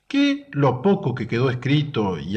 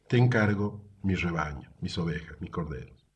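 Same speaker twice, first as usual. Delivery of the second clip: low, softening to very quiet; gentle entrusting; 6 semitones lower, 6 dB quieter than usual. Retold or imitated. Jesus entrusting his sheep to Peter, gentle and low. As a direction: hand it over softly, voice sinking.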